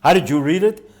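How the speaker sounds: the guard demands his reading; incredulous guard. Acted. The pool guard presses the swimmer, incredulous.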